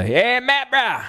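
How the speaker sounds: high, exaggerated Texan bro voice; hammed-up friendly bro caricature; Gary. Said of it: "someone starts talking like that".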